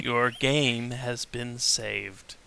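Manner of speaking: slow, flat robotic announcer; monotone voice. Retold or imitated. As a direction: drone it like a game's save message. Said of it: "monotone voice I've ever heard".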